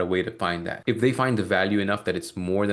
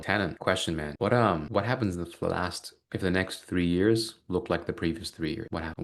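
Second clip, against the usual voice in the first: very slow. Shown as a demonstration. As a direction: let each word land slowly. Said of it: "We ask it in a very, very slow way like that".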